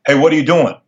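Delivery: mildly testy, ill-at-ease dad; awkward, uncomfortable voice. Retold or imitated. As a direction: imitate an uneasy dad checking in. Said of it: "uncomfortable voice".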